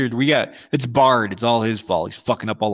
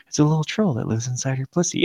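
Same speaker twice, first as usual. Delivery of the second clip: imitating deadpan delivery; 2 semitones higher than usual. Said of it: "It's just the way he does it".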